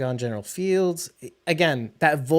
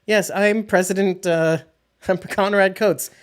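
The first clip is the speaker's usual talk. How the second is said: mock presidential; 5 semitones higher than usual. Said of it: "The name itself sounds presidential".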